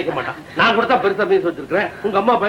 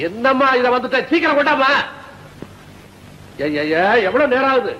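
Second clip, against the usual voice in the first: impatient calling out; 4 semitones higher than usual. Acted. Father hurrying daughter, calling louder.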